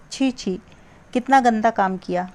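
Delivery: mild acted disgust. Shown as a demonstration. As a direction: recoil at something dirty. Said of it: "कुछ शब्द विस्मयादिबोधक अव्यय का काम कर रहे हैं".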